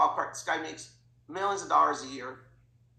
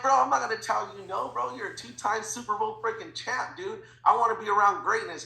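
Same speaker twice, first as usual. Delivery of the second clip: loud, higher, emphatic bro-to-bro insistence; excited retold protest; 5 semitones higher, 4 dB louder than usual. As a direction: insist with fired-up admiration, pitched up. Excited refusal to turn down idol.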